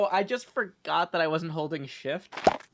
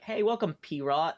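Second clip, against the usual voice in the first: put-on French accent. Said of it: "say it with the French accent".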